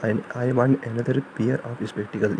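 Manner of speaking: very slow, careful corrected sentence; slow corrected example. Shown as a demonstration. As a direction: dictate the right version slowly. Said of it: "corrected sentence said slowly". (धीमे से सही वाक्य)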